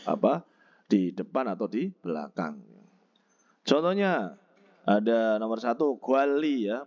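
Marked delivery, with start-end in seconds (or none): 6.0-6.7 "guali" with a held L in the middle; nien read as riel. Shown as a demonstration. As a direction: say "guali" as gwal-li, both syllables joined by L. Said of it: "bacanya guali ya".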